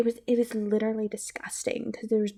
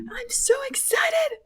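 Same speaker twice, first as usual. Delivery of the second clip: high breathless whispered squeal; excited squeal; 5 dB louder, slower than usual. Real, not acted. Vlogger squeals her excitement about the game. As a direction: squeal it out under your breath, slowly.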